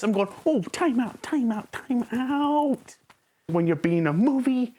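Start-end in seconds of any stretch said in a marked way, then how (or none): 0.4-3.0 rising, higher calls of time out; playfully halting the film, pitch climbing; mock time-out call. Reviewer calling time out on the character, higher each time.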